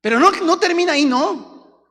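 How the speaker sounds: high, loud pulpit cry; fiery preaching. Real, not acted. Preacher exhorts the congregation, loud and high. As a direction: drive the point home to the church.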